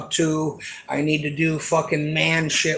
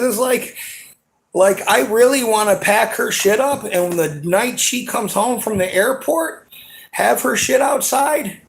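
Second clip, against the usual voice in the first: raised, fast, heated venting, near shouting; angry rant; 5 semitones higher, 3 dB louder than usual. Real, not acted. Venting to the camera about his girlfriend, heated raised rant. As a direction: let the anger boil over about her. Ranting about packing her things.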